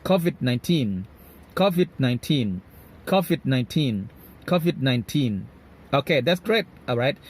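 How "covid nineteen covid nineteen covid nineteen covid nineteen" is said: put-on "covid nineteen" with weight on TEEN, falling at the end; stress on TEEN. Shown as a demonstration. Teacher drilling covid nineteen for learners, heavy stress on teen. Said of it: "ออกเสียง stress เสียงหนักที่ teen".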